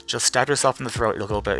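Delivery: soft sarcastic mutter; sarcastic aside. Retold or imitated. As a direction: drop the voice and egg him on. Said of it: "I sound like I'm being sarcastic".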